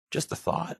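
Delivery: tossed-off whispered aside; breathy aside. Acted. Companion teasing the boss, whispered aside. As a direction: murmur it away, half to yourself.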